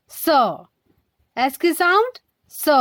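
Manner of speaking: स as a voiceless hissed s sound; एस की sound. Shown as a demonstration. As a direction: say स with an unvoiced s. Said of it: "ये हमारी एस की sound". (स को बिना गूंज वाली स ध्वनि से बोलें)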